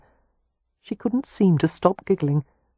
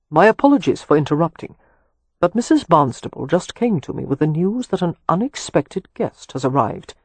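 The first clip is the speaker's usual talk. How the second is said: apologetic servant. Acted. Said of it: "apologetic throat-clearing".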